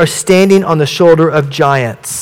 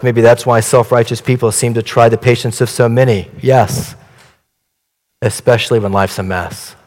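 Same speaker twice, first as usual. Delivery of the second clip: much lower, grave and humble apostle; Apostle John; 4 semitones lower than usual. Acted. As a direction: answer gently from deep conviction. Apostle John answers in poem.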